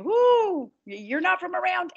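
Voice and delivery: high-pitched mock of teasing kids; imitating her kids. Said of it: "my kids will be like".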